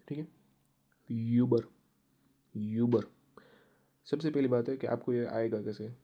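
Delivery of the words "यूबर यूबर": यूबर called out loud, "ue-ber"; loud demo; loud drill. Shown as a demonstration. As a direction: project यूबर twice. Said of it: "मेरे साथ आपको pronounce करना है".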